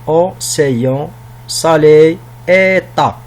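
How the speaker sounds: word-by-word demo, each word set apart; lecture de son. Shown as a demonstration. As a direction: sound out "Océan, salé, état" one word at a time. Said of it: "Commençons par le son A". (lecture mot à mot pour montrer le son)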